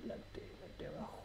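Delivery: breathy near-silent whisper. Real, not acted.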